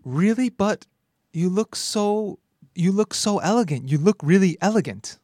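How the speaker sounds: butter up the customer, gushing; smooth salesman. Acted. Salesman flattering a shopper into buying: gushing, high. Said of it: "And he doesn't stop".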